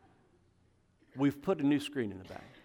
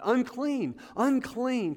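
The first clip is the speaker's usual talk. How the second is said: a higher, called-out warning; lightly voiced leper crying out; mock leper's cry; 9 semitones higher, 5 dB louder, slower than usual. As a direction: call it out like an outcast warning others. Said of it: "they would have to yell out".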